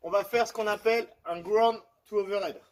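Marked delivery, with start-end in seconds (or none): 1.4-2.6 English term in a French accent. Real, not acted. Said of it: "vous excusez mon accent".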